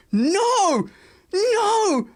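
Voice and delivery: put-on high, wailing child's "no, no"; a devastated little girl's cry; daughter screaming. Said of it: "She just screamed".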